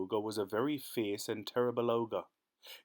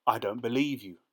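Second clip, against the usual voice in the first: louder teasing challenge; taunting; 5 dB louder than usual. Acted. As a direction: goad the ogre. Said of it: "taunted the cat".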